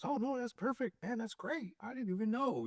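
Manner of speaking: imitating the guy. Father imitating the customer brushing off his mistake. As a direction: play the easygoing customer brushing it off. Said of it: "and he goes".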